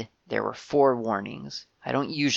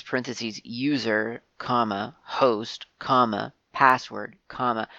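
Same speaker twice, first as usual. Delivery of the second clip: dictating code. Shown as a demonstration. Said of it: "I'm writing exactly what I'm saying".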